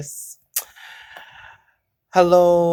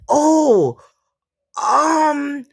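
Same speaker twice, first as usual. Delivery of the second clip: higher, crying-laughing sorry; laugh-crying apology; 8 semitones higher, much slower than usual. Real, not acted. Vlogger retelling her apology to the lady, laugh-crying. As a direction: apologize through tears of laughter.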